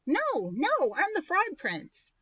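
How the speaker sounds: eager prince asking a favor. Acted. Prince voiced in read story.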